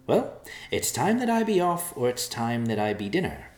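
a mouse spooked by the vulture's cry; hurried mouse. Acted. Narrator voices the mouse.

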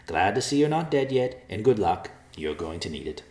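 a mouse spooked by the vulture's cry; hurried mouse. Acted. Narrator voices the mouse.

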